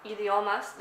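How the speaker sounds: "Idiomas" with a soft final s; soft Spanish s. Shown as a demonstration. Vlogger echoing the Spain accent, soft s on "Idiomas". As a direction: say "Idiomas" with the s barely emphasized. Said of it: "It's very soft".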